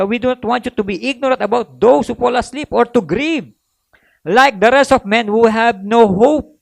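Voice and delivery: measured pulpit reading of scripture; solemn scripture reading. Acted. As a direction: read the verse like it's holy. Reads scripture aloud.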